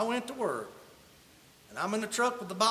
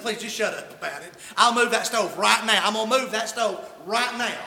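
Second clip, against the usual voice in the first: blunt retort; 5 dB louder than usual. Retold or imitated. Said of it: "I didn't say it that nice".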